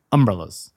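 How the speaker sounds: "Umbrellas" with the stress punched on UM; Baltimore umbrellas. Retold or imitated. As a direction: hit the "um" in "Umbrellas" hard. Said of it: "A lot of emphasis on the um".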